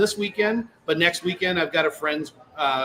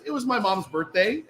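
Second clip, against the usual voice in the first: laughing; 7 semitones higher than usual. Real, not acted. Retold friend's reply, laughing.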